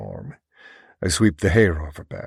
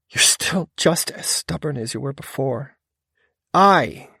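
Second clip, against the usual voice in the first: higher female voice, rising heat; scolding woman; 8 semitones higher, 6 dB louder than usual. A narrator's reading. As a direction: scold him, punch the I.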